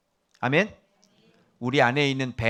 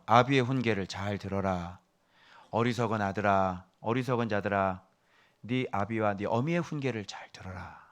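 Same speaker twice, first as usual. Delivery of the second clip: scripture recitation; 5 semitones lower, 5 dB quieter than usual. Acted. Reciting a father's counsel from Proverbs.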